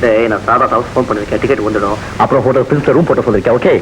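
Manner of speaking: businesslike run of short items; telegram-style talk. Acted. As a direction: reel off arrangements like a telegram. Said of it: "தந்தி அடிச்ச மாதிரி பேசுறான்". (தந்தி அடிச்ச மாதிரி பேச்சு)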